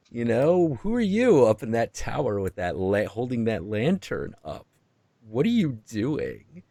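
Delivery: devil voice. Retold or imitated. Devil questioning Jung.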